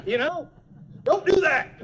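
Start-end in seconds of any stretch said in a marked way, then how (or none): 1.0-1.7 sudden high, loud yell of Stop; startled passenger shout; panicked yell. Retold or imitated. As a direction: scream Stop like a car is coming. Panicked passenger yelling at driver.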